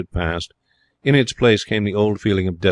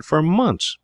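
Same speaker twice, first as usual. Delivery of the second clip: put-on high-pitched emphasis, American accent; 9 semitones higher than usual. A narrator's reading. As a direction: stress it as an American would. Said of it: "in a marked American accent".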